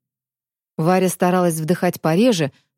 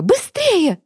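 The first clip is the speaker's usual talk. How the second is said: urgent; 10 semitones higher than usual. Acted. Escape, urgent call.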